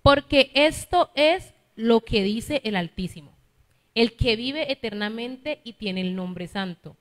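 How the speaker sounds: slow, weighty reading of the verse; preacher reading the Bible aloud to the congregation, slow and solemn; solemn scripture reading. Acted. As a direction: read the prophet's words slowly and with gravity. Reads scripture passage aloud.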